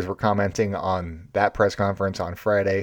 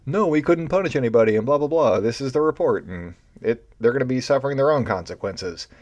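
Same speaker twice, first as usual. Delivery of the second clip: mock commissioner; 4 semitones higher than usual. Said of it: "is like".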